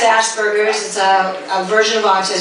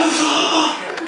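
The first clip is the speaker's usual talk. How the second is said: gasp; 3 semitones higher than usual. Retold or imitated. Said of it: "close your lips and take a deep breath".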